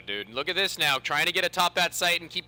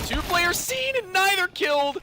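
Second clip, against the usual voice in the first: excited; 4 dB louder than usual. Real, not acted. Caster reacting to missed kills.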